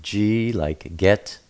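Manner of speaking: G named as a letter, hard as in get. Shown as a demonstration. Teacher explaining Gimel's sound, hard G. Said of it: "Gimel is pronounced G".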